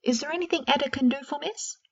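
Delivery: put-on an old house elf offers to comfort Miss, high and eager; lightly squeaky elf.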